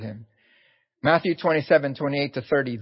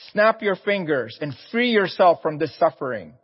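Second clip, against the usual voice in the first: raised, louder taunting, pitched up high; jeering insults; 3 semitones higher, 3 dB louder than usual. Retold or imitated. Bystanders at the cross taunt Jesus in a raised jeering voice. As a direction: hurl it like a scornful passer-by. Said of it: "hurled insults at him".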